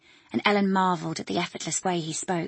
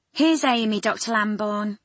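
announcing nurse; 3 semitones higher, 3 dB louder than usual. Acted.

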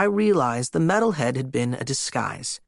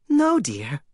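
muffled voice; 3 semitones higher than usual. Acted. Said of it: "Her muffled voice".

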